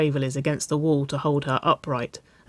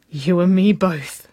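grinning reply; 3 semitones higher, 6 dB louder than usual. A narrator's reading. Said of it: "Waverley grinned".

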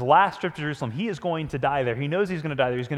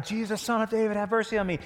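voice above the crowd; 4 semitones higher than usual. Retold or imitated. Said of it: "hears this voice above the rest of the crowd".

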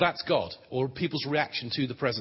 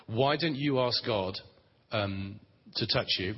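gentle invitation; slower than usual. Shown as a demonstration. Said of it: "That's fine, you don't have to".

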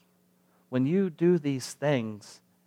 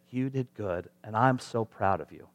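put-on soft, tender praise to a child; proud parental affirmation; 3 semitones lower, 5 dB quieter than usual. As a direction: voice a parent quietly affirming their kid. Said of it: "affirmation to your kids".

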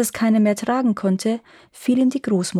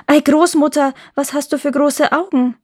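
put-on high, raised-voice child's wonder; wide-eyed storybook surprise, pitched up; astonished girl; 6 semitones higher, 5 dB louder than usual. A narrator's reading. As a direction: exclaim in amazement as Rotkäppchen. Rotkäppchen marvels more.

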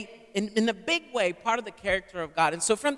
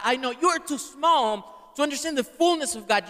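preaching crescendo; 4 semitones higher than usual. Real, not acted. Preacher rising to full force.

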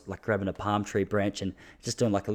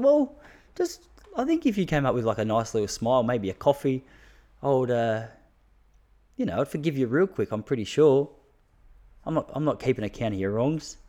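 mock magnanimous; 2 semitones higher than usual. His mock magnanimous reply.

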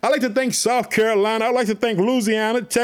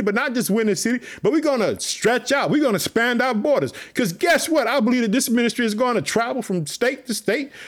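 emphatic, rolling preacher's cadence; fervent preaching. Real, not acted. Preacher urging the podcast family to trust God, fervent preaching. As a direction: preach it with driving conviction. Preaches on faith and church planting.

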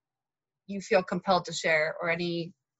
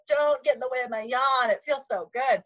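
higher-pitched retold complaint; mock protest; 6 semitones higher than usual. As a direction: protest lightly, defending your pleasure. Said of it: "I would get so mad".

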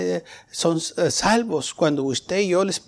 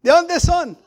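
wary church member; 12 semitones higher, 6 dB louder than usual. Retold or imitated. Hermanos asustados preguntan.

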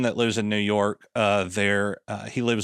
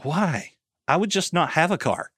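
higher, mocking disbelief; incredulous retort; 7 semitones higher than usual. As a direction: toss it back as if it's absurd. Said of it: "And I'm like".

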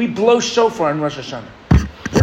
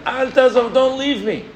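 imitating a wailing mother; 7 semitones higher than usual. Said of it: "she starts screaming".

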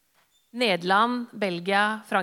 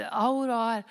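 polite farewell. Retold or imitated. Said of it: "sier det så høflig".

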